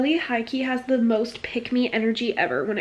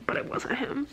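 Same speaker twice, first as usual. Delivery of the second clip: hushed whisper of a secret; whispered reveal; 2 semitones higher, 8 dB quieter than usual. Acted. Reading the plot twist to viewers, whispered.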